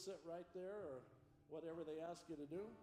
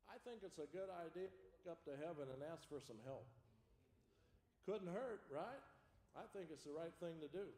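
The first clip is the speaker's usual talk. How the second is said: put-on gentle, lower lesson voice for children; kindergarten teacher voice; 4 semitones lower than usual.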